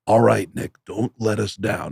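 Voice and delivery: lightly imitated rock-star dad; a famous rock musician. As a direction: play the father coaching his son, lightly. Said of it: "pretend to be me and whisper".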